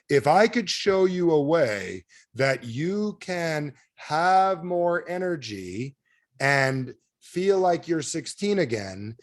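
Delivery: exaggeratedly slow, drawn-out pitch; half-speed sales script; slow motion. Shown as a demonstration. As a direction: stretch every word as if in slow motion. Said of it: "I'll do it in slow motion".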